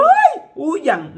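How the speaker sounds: loud, high panicked cry; mock panic. Preacher voicing the panic David never showed, mock panicked cry.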